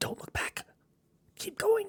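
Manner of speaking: very high-pitched whisper under the breath. Voicing a character warning a player not to look back: whispering. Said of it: "He's kind of trying to, like, whisper it".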